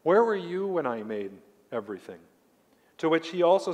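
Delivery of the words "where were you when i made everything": God challenging Job. Retold or imitated. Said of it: "God speaking that to Job".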